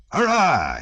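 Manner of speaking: high, drawn-out hurrah; exultant high cheer; cried cheer. A narrator's reading. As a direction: cry it out as a rousing toast. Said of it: "he cried".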